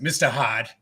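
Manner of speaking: put-on Boston accent with dropped r; broad Boston ah in Hard; mocked Boston accent. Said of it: "make fun of me all the time, my accent".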